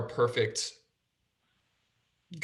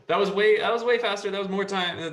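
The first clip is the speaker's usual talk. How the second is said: higher and louder in surprise; surprised; 7 semitones higher, 4 dB louder, faster than usual. Real, not acted. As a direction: marvel at how quick it went. Surprised at quick finish.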